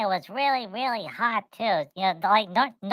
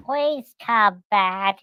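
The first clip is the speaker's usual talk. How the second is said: pouting plea; much slower than usual. Retold or imitated. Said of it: "they were all pouting".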